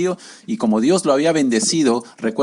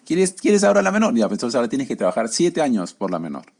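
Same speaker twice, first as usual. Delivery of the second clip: sly uncle. Acted. The uncle to Jacob, sly and mocking. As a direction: tease out the deal like a crafty trickster.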